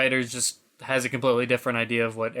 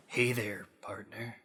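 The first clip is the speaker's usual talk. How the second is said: cool cowboy; 5 semitones lower, 13 dB quieter than usual. Retold or imitated. Aaron Black on the job, low hushed cowboy greeting. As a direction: drop it low and easy like a cowboy. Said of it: "other times he's like".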